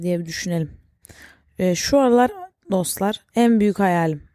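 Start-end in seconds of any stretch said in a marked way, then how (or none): 3.3-4.2 hiccup breaking the phrase. Real, not acted. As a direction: say it through a hiccup. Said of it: "Pardon, hıçkırdım".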